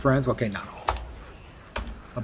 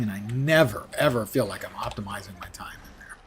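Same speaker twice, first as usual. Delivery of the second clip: whispered aside; 4 semitones lower, 5 dB quieter than usual. Real, not acted. Grumbling aside about the game.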